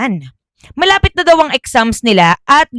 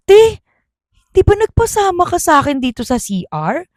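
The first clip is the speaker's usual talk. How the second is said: confused friend; 7 semitones higher than usual. Acted. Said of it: "sabi niya daw".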